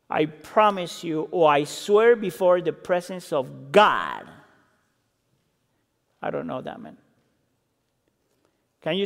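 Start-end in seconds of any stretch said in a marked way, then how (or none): 0.1-7.0 low, slow, solemn vow; swearing an oath. Retold or imitated. Peter swearing before God, low, slow and solemn. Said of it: "he denied it with an oath".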